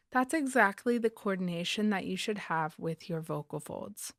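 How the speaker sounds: normal talking voice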